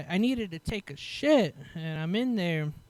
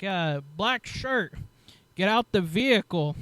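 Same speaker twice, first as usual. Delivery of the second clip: imitated police order; 2 semitones higher, 4 dB louder than usual. Retold officers ordering someone out.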